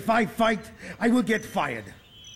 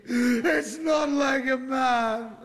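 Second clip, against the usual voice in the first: slow, tearful admission; slow and ashamed, through tears; crying, ashamed; much slower than usual. Acted. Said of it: "I always cry after a fight".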